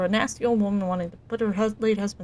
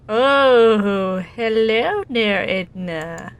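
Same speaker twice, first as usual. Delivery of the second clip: 1 startled hello; 8 dB louder, much slower than usual. Acted. Oliver spots Edna behind column.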